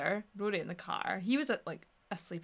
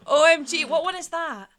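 shocked; 7 semitones higher, 10 dB louder than usual. Real, not acted. Disbelief at friend's film.

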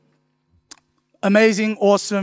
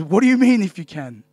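affronted retort, tailing down at the end; mock scolding. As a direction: imitate a mild telling-off. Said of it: "you get scolded".

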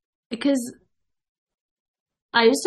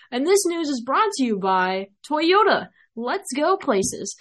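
ad announcer voice; 3 semitones higher than usual. Shown as a demonstration. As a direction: sell it like a car commercial. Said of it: "My podcasting voice".

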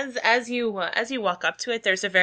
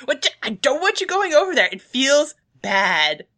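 high, fast squeal slowing on the last words; squeaky worried protest; pleading hamster; 5 semitones higher, 4 dB louder than usual. Acted. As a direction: plead like a frightened small creature. GM voices hamster pleading with player.

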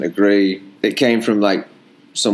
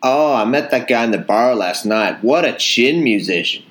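attempted Texas accent. Shown as a demonstration. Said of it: "I don't think that's Texas at all".

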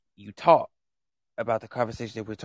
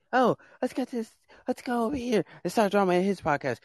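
mocking troll voice; 10 semitones higher than usual. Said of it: "This is not a drama podcast".

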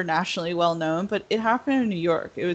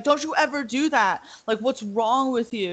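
sharp, raised scolding as Frank; angry scolding; 5 semitones higher than usual. Retold or imitated. Frank scolding the teenage girl who sprang at him, raised angry voice. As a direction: snap at her to never try that again.

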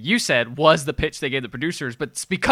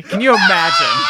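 incredulous; 3 dB louder than usual. Real, not acted. Laughing disbelief at firing.

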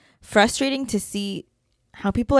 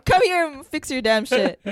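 high-pitched, half-laughing mock outrage; exasperated retold rant; retold anger; 6 semitones higher than usual. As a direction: order him over, mock-furious and higher in pitch. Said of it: "I was so mad".

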